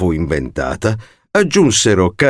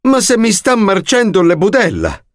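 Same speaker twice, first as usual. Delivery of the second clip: much higher, outraged shriek; 9 semitones higher than usual. A narrator's reading. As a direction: squeal it out in disgust. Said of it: "strillò quella". (strillo indignato)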